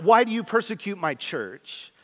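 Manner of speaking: the mistaken reading said lightly; wrong version. Shown as a demonstration. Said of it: "No, it s-, says".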